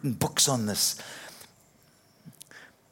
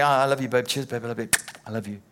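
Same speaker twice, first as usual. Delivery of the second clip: casual love you; much faster than usual. Retold or imitated. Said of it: "difference between saying".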